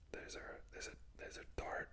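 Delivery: "dart" softly, with sounded R; American-West Country pronunciation. Shown as a demonstration. Practising the American example, soft "dart" with R. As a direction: quietly try "dart" with R and little T. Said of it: "you would pronounce the R".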